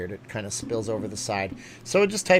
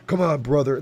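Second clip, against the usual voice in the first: louder wrestler rasp; Hulk Hogan voice; 2 semitones higher, 5 dB louder than usual. Acted. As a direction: another wrestler-style try. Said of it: "The thing about Hulk Hogan".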